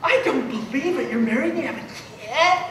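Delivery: soft, incredulous imitation of onlookers; mock freaked-out disbelief. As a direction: gasp it softly as a stunned bystander would. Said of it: "Everybody was freaked out. They're like".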